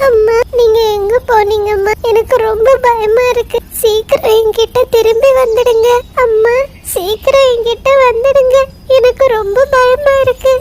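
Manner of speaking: put-on scared child alone in the dark; frightened child. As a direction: plead for mum to come back. Lamb scared alone at night.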